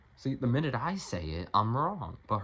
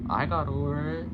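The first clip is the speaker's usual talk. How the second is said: emphatic shout; 5 semitones higher, 7 dB louder than usual. Real, not acted. Insisting loudly to partner.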